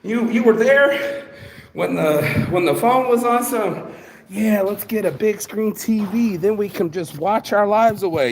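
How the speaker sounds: high, put-on voice scolding a partner; mock scolding voice. Mocking the person who set the trap, high scolding voice. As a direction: lecture them in a high mocking tone. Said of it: "I'm over here going like".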